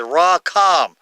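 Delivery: "Ra-Kam" as rah-KAHM, weight on KAHM; stress on second syllable. Shown as a demonstration. Teacher explains where the accent falls, "Ra-Kam" stressed on the end. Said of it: "the accent is on the second syllable".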